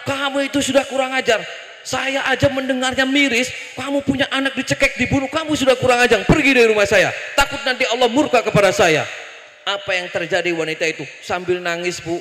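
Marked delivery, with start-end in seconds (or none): 0.1-9.0 acted indignant scolding; retold rebuke, pressing on to a forceful dismissal; Nabi Musa, angry. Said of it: "Nabi Musa langsung ngamuk". (menghardik dengan marah)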